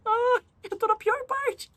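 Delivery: high-pitched, drawn-out fake wail; mock crying. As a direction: wail it high like a hammed-up sob. Mock wailing at her own plight. (choro fingido, agudo e arrastado)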